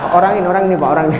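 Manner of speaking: menggoda sambil terkekeh; sambil tertawa. Real, not acted. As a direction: bicara di sela tawa. Menunjuk jamaah sambil tertawa. (menggoda jamaah sambil tertawa kecil)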